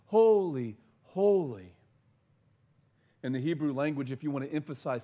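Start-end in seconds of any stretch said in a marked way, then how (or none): 0.0-1.7 loud, ringing proclamation, each holy louder and higher; crying out. Acted. Seraphim crying to one another, loud ringing proclamation. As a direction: call it out in awe across the throne room. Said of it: "they are crying out".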